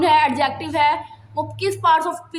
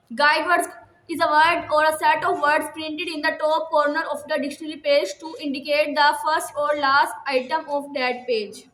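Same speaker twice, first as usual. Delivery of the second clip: slow dictation reading; much slower than usual. Shown as a demonstration. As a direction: read each word slowly for students to copy.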